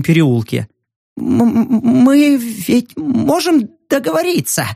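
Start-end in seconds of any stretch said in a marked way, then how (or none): 1.2-4.7 higher, stuttering, pleading; frightened stammering plea. Acted. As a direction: beg for your life with a stammer. Terrified man pleading.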